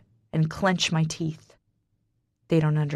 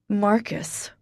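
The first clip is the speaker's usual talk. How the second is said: slurring; 3 semitones higher than usual. Acted. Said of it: "I slur".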